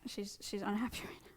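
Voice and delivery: hushed whisper with a small laugh; whispered aside with a giggle. Real, not acted. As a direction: keep it breathless so the bug isn't startled. Whispering near the skittish bug.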